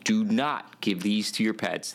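NOT pushed firm and loud; stress on NOT. Real, not acted. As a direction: hit the word not hard. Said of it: "I repeat".

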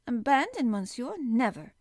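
loud, loyal defiance; fierce refusal. Acted. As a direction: refuse to leave him, raising the voice. Servant refuses to abandon master.

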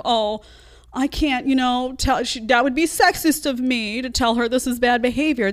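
high-pitched mock excuse; imitating hesitant moms. Voices the woke moms' excuse.

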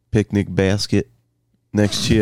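"basket" said to rhyme loosely with "napkin"; odd pronunciation. Pretend. Podcaster laying out a field picnic, odd pronunciation. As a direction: let "basket" slur toward a "napkin" sound. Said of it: "Why'd you say it like napkin?".

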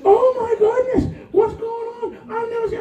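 high, loud, half-laughing alarm; retelling the fright, voice up high; shocked exclaiming. Retold or imitated. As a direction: gasp it out in laughing disbelief. Frightened by the shaking house.

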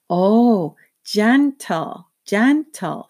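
put-on high, bright little-girl chatter; toddler voice. A narrator's reading. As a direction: coax like an eager two-year-old.

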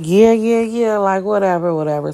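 high, dismissive run of yeahs that fades out. Retold or imitated. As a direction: brush her off with a mocking yeah yeah. Mocking brush-off in retold call.

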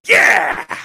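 high mock agreement. Retold Foley agreeing.

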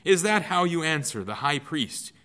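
high, loud, indignant challenge; a guard barking his rebuke; demanding. Acted. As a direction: demand it, outraged at the insolence. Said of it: "he demanded".

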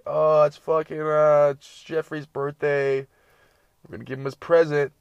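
mock a girl fawning over her pet; Snapchat girl. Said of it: "she was like".

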